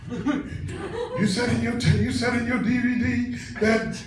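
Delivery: high, slow put-on voice; mimicked whining caller. Caller at three in the morning quoting the DVD, mimicked whining caller. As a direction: imitate a distressed caller complaining.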